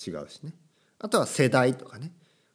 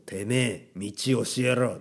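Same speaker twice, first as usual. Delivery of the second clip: yakuza tough talk; slower than usual. Pretend. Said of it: "そういう話し方は真似しないように".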